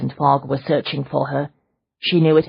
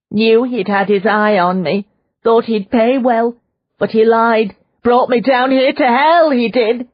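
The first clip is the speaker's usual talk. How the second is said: despair; 9 semitones higher, 5 dB louder than usual. Acted. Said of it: "voice roughened in despair".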